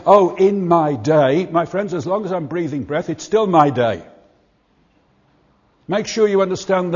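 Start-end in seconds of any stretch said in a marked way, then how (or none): 0.1-1.5 slow, louder wistful sigh; mock old-timer lament. Preacher mimics older folk saying in my day, slow wistful. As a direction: drag it out like a nostalgic elder. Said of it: "we're silly enough and wrong enough to say".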